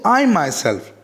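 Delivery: "I myself" with I lifted, then falling; emphatic "I myself", falling at the end; stress on I myself. Shown as a demonstration. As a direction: lean on "I" in "I myself". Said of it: "we are putting an emphasis".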